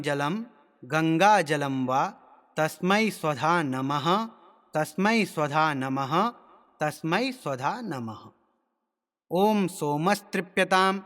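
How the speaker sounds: measured Sanskrit chanting with drawn-out syllables; mantra recitation. Shown as a demonstration. Teacher demonstrating tarpan mantras to learners, measured recitation. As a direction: intone each phrase slowly, pausing between.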